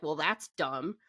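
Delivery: mild dismissive scoff, slightly under the breath; Denji. Retold or imitated. Scoffing at a friend's goal of rescuing her cat, dismissive. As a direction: lightly imitate someone scoffing at a silly goal. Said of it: "Denji hears this and kinda scoffs at her".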